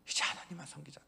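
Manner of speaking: gentle 하나님만 after the shout; soft 하나님만. Acted. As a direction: drop to a soft plea on 하나님만. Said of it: "계속 외쳤죠".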